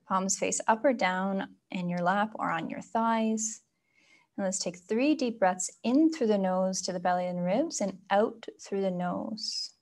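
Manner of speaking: soft, unhurried meditation guidance; guided meditation. Acted. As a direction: ease them gently inward, leaving room for breath. Leads a breathing meditation.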